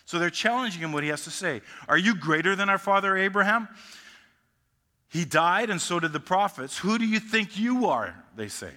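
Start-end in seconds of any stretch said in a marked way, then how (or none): 1.9-8.2 loud, high, affronted demand; indignant challenge. Acted. The Jews confronting Jesus, loud and indignant. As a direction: throw it at him like an accusation.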